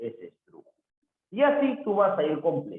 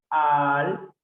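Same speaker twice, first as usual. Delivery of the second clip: "alfiler" split al-fi-ler, each piece held; syllable separation; 2 semitones lower, 4 dB louder than usual. Shown as a demonstration. Teacher showing the separación, "alfiler" in separate syllables. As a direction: break "alfiler" into slow syllables with gaps. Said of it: "la separación en alfiler".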